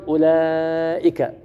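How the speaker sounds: slow, drawn-out recited أولئك; measured tajweed delivery; Quranic recitation. Shown as a demonstration. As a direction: recite the word slowly as in the mushaf. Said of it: "أيضًا".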